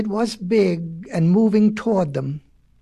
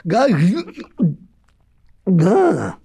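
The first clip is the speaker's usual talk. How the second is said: choked stammer; 5 dB louder than usual. Acted. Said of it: "began the little frog".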